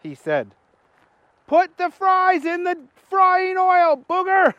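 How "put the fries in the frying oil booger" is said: a raised, slowed manager giving orders; lightly voiced boss instructing Booger.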